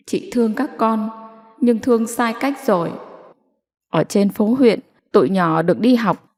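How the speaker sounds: a hint of a patient official counselling; lightly voiced kind official. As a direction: reason with her kindly. Official gently persuades mother.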